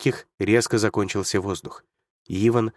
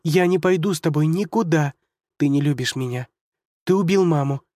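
angry refusal; 6 semitones higher than usual. Acted. Girl refusing Hunter.

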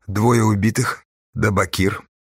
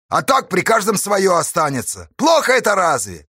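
higher, pressing and persuasive; earnest persuasion; 9 semitones higher than usual. A narrator's reading. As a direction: win the crew over. Astash persuades the haulers. (горячо убеждая)

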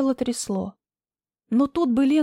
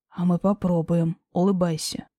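lower, firm man's voice; low male voice; 5 semitones lower than usual. Acted.

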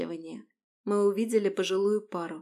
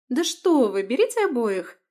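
eager and pushy, higher and louder; insistent; 4 semitones higher, 7 dB louder than usual. Acted. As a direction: press her to take both kittens. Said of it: "С непосредственной непоколебимостью принялась она меня убеждать".

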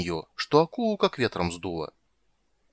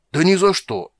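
much higher, louder protest; loud denial; 9 semitones higher, 8 dB louder than usual. Acted. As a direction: deny it outright. Shark denies loudly.

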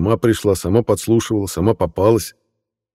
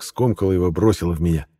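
usual speaking voice

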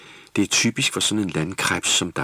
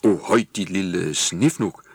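booming; 4 dB louder, slower than usual. Acted. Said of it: "buldrede Skippernis".

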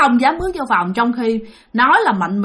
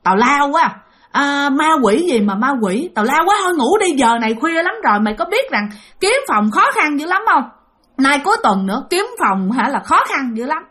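mildly irritated telling-off, a bit higher; annoyed scolding; 4 semitones higher than usual. Acted. Sleepy friend dismisses talk of ghosts, mildly scolding. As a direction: brush a friend off with an exasperated scolding. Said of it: "nó mới chửi bạn".

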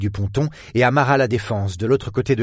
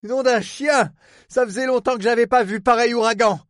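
raised, grumbling oath; grumbled; 12 semitones higher than usual. A narrator's reading. Superintendent curses the hurricane, grumbling. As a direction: grumble about the weather in a higher voice. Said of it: "grogna le surintendant".

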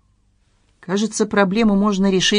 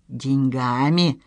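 slow, low, hollow question; echo-like repeat; 4 semitones lower, 4 dB quieter, much slower than usual. A narrator's reading. Son repeating father's word, slowly like an echo. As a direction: echo the word back, drawn out. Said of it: "как эхо повторил Павел".

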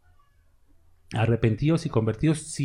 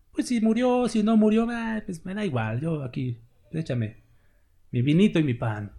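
mock careless shrug; 4 semitones higher than usual. Careless believer mocked.

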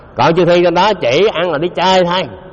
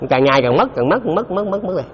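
dwindling away; 3 semitones higher than usual. Shown as a demonstration. Teacher showing listeners merit draining away, fading repetition. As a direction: let the repetition die away gradually.

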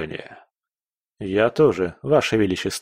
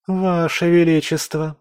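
whining chorus; 8 semitones higher than usual. A narrator's reading. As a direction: whine it like spoiled court girls. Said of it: "хором заныли девушки".

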